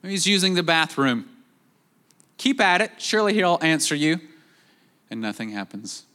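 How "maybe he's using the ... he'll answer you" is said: a light, higher mocking jab; mocking taunt. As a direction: tease them with fake encouragement. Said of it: "he says".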